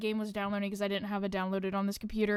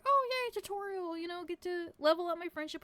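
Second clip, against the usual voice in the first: sarcastic; 6 semitones higher than usual. Retold or imitated. Mocking the game's tutorial.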